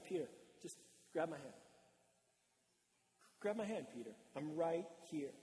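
quietly steadying, with long pauses; calm reassurance. Acted. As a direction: coax a frightened friend gently. Jesus calls to Peter, reassuring.

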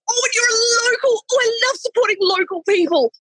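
high, breathy gushing; enthusiastic gush. Retold or imitated. Manager learning she is local, high and gushing. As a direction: pour out delight. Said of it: "she was just so enthusiastic".

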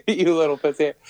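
put-on light Philly accent, laughing through it; faint Philly accent; mock Philly accent. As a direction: echo the insult in a Philly voice. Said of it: "closer to a Philly accent".

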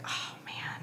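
barely audible, breath-only sigh of words; dismayed whisper. Retold or imitated. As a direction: whisper it to yourself, defeated. Retelling her dismayed inner reaction.

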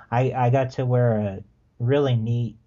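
dry sarcastic praise. Real, not acted. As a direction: sound impressed but mean the opposite. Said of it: "and I'm saying that sarcastically".

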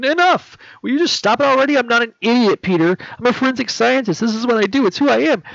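loud, high, furious shouting. Acted. Carly shouting at Peter to stop lying, furious and loud. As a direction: tear into him, she is done being lied to.

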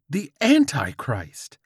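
slow, high, loud cry; fervent proclamation. Acted. George sees his proof, fervent loud cry. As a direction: proclaim it like a zealot.

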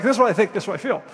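mock-insistent, laying out my case; a touch of pushy client; insistent demand. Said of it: "I'm like".

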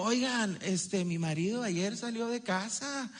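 lightly voiced chatty housewife; chatty wife. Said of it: "Algo así como".

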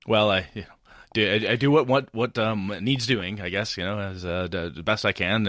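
trailing, fumbling and flustered; babbling. Acted. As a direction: stumble through it shyly. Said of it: "he babbles a little bit more".

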